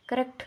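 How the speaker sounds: "करेक्ट" as "kuh-rekt"; short neutral first vowel in "करेक्ट"; corrected pronunciation. Shown as a demonstration. Teacher repeats the correct accent, "करेक्ट" pronounced "kuh-rekt". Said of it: "करेक्ट बोलते हैं".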